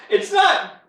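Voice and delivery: sheepish laughing defence. Real, not acted.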